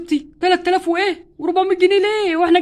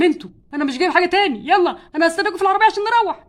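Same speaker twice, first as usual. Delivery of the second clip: fed-up shout; 3 semitones higher, 4 dB louder than usual. Acted. Husband fed up, leaving.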